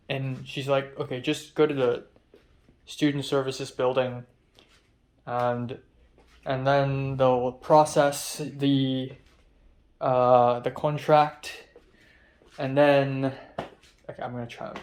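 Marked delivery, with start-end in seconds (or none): 1.0-4.2 put-on light stab at an Irish accent; a hint of amateur Irish accent; attempted Irish accent. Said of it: "try to not do an Irish accent". 5.3-13.3 slow, halting mock Irish accent; amateur Irish accent, slow and deliberate; attempted Irish accent. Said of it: "try to not do an Irish accent".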